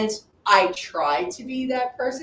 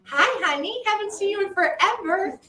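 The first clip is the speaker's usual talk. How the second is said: excited greeting; 11 semitones higher than usual. Real, not acted. Greeting someone on screen.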